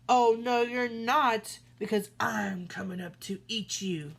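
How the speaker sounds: loud troll threat; troll threatening to eat the goat, loud. Acted. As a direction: bellow it at the goat.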